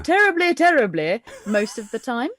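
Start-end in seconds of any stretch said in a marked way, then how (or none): 0.0-1.2 plummy received pronunciation; crisp, mock-proper RP English; terribly-terribly RP. Shown as a demonstration. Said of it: "R P that I've been trained".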